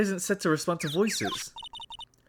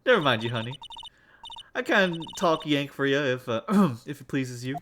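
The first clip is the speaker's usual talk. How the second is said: put-on Southern US accent; 2 semitones lower than usual. Local offering to talk Yank, Southern accent. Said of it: "I know the accent".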